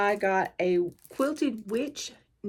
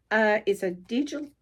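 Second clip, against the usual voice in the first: tearing with teeth. Real, not acted. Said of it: "I can't even talk".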